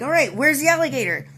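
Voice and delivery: ready for the next one, cocky; pumped up. Retold or imitated.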